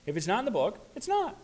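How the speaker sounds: mocking his old militant self, high and emphatic; dogmatic declaration. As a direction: lay down the law. Mocking own militant phase.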